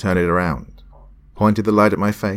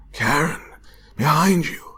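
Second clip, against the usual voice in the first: shouted warning; 11 semitones higher than usual. Acted. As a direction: yell to warn her.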